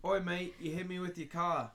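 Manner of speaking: mock Australian accent. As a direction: put on a rough Australian accent. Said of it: "let's start with Australian".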